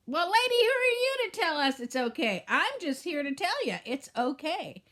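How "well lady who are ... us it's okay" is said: louder, higher challenge of a doubting viewer; sceptical viewer. Pretend. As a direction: push back like a doubter. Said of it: "voices an imagined sceptical viewer".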